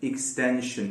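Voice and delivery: एक्सटेंशन softly, starting with the ee-sound इक्स; quiet model of एक्सटेंशन; correct pronunciation. Shown as a demonstration. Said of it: "शुरू में ई sound आता है".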